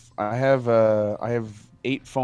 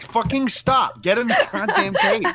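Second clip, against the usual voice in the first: high, loud exasperated yelling with laughs; mock yell at rabbit; 14 semitones higher, 5 dB louder than usual. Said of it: "I'm like".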